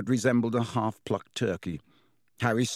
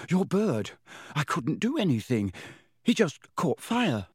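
put-on high, alarmed boy explaining himself; gasped; 6 semitones higher than usual. A narrator's reading. Harry explains the burning bird to professor, gasping. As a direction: protest in gasped, broken-up phrases. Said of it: "Harry gasped".

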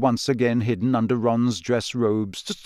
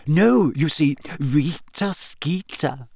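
quiet triumph; 4 semitones higher, slower than usual. A narrator's reading. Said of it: "Hermione's voice trembled with quiet triumph".

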